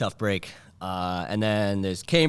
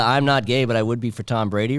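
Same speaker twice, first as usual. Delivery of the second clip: hammed-up Boston bro; 3 semitones higher, 7 dB louder than usual. Shown as a demonstration. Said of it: "if you pull out the".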